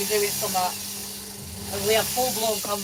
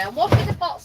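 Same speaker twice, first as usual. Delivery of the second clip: own reply; 8 semitones higher, 5 dB louder than usual. Retold or imitated. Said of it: "And I say".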